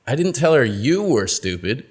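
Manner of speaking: "tell" stressed and rising. Shown as a demonstration. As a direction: hit "tell" again. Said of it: "change the meaning of the same sentence".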